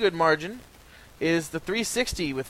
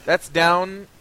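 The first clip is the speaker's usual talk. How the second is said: slow, weighty figures read out; slow announcement; slower than usual. Acted. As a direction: read the totals slowly, gravely. Slow dramatic reading of totals.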